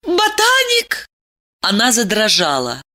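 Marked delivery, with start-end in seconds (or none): 0.0-1.1 shocked question. A narrator's reading.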